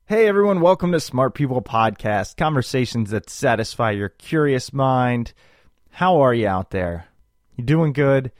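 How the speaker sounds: radio voice. Pretend. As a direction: announce it like a DJ. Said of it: "my I just woke up radio voice".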